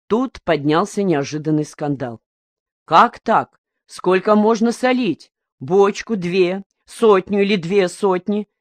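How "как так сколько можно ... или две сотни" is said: a mild mock shout, a bit higher and slowing down; hammed-up crowd protest, pressing each question; shouting fishermen. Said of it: "Рыбаки обеих бригад кричали".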